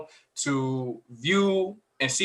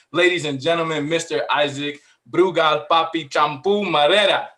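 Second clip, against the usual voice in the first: lucha libre announcer. Acted. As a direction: ring announcer building up the full name. Grand host introduction of cohost.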